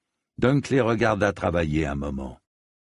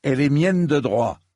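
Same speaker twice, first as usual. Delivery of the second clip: higher, louder, proud retort; defensive Dunk; 7 semitones higher, 4 dB louder than usual. A narrator's reading. Dunk defends his claim to the sword, with a higher, louder retort. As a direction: stand your ground on your sword. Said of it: "se défendit Dunk".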